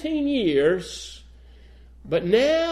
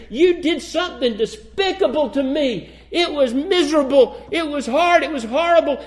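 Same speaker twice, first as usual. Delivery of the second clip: blunt reproach; 5 semitones higher than usual. Retold or imitated. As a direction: hit each charge squarely and hard. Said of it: "He doesn't dance around that".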